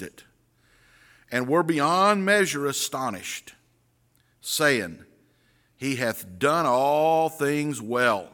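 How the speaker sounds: measured King James reading; scripture reading. Acted. Pastor reading the passage to the congregation, measured. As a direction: read the verses aloud to the church.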